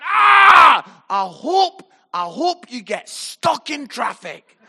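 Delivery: high yell that eases off into the taunt; mock furious shout. Derek shouting at the Chelsea fans, mock-furious yell. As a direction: burst out roaring, then land a feeble curse. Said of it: "he just shouted at the Chelsea fans".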